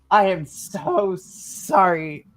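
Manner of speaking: very slow, stretched-out apology; drawn-out apology. Acted. Sam to Aiden after escaping the room, drawn-out apology. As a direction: lean on each word, dragging it out.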